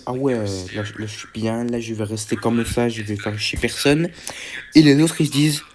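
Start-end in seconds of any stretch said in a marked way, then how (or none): 0.1-4.1 laid-back character. Acted. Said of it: "Elle est en mode".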